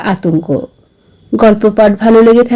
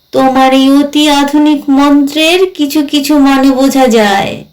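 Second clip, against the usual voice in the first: lightly voiced ghost, rueful; 3 semitones higher than usual. Ghost confesses failing to grasp the poems, lightly voiced, rueful. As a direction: play a ghost lightly, stretching the phrase ends. Ghost character answers the narrator.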